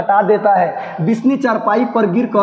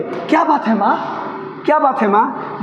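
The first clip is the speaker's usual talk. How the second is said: frightened; 3 semitones higher than usual. Acted. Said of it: "घबराए हुए स्वर में".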